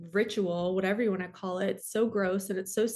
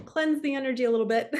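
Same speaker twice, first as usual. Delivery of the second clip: laughing; 4 semitones higher, 3 dB louder, faster than usual. Real, not acted. Laughing to shake off the mood.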